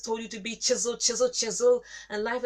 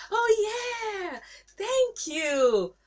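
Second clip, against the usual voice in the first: mock parent reply; 10 semitones higher, 4 dB louder, much slower than usual.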